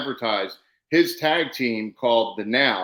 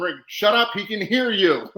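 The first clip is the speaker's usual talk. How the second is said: higher-pitched mock yell at a colleague; retold yell; 7 semitones higher than usual. Wrestler hushing a colleague mid-match, mock yell. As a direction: yell it in retelling, breaking into a laugh. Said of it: "And I yell at him".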